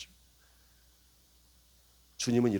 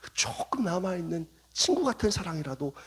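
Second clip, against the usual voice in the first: soft, hushed, halting plea; pleading whisper; 8 dB quieter than usual. Acted. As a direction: beg gently in a near whisper. 주님의 속삭이는 간청. (조용히 속삭이며 간청하는 주님)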